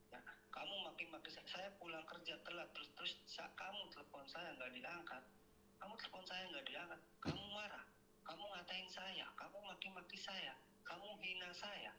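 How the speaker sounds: mildly heated, rising recital of wrongs; retold accusation, pitch climbing; aggrieved complaint. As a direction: list each grievance with mounting hurt. Caller retells grievances against wife.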